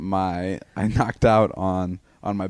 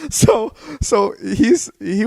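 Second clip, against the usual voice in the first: laughing; 11 semitones higher, 4 dB louder, much slower than usual. Real, not acted. Laughing mid-story.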